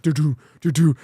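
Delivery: imitated clunking. Imitates slow bumpy driving noise.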